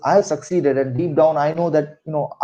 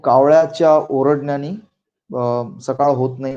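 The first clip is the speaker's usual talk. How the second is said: Marathi saying; much faster than usual. Shown as a demonstration. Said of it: "we have this saying in Marathi".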